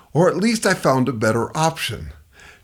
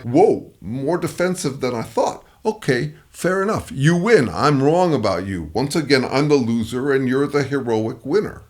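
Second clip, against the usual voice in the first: dripping with mock humility; sarcastic. Shown as a demonstration. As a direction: humor them with heavy sarcasm. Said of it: "humor them sarcastically".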